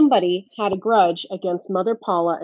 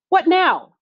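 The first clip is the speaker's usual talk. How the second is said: unhappy wondering; 10 semitones higher, 4 dB louder than usual. A narrator's reading. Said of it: "the foreman wondered unhappily".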